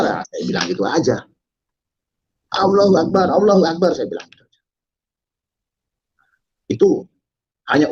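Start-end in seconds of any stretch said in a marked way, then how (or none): 2.6-3.9 high, forceful repeated call; retold rallying cry. Rioter rallying the mob, high retold cry. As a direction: send the cry out high over the crowd.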